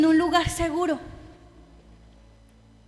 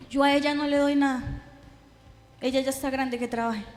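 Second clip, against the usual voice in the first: cold dismissive father; 3 semitones lower than usual. Retold or imitated. Father refusing to support his daughter at the police station, cold dismissal. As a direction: shrug her off like a cold father.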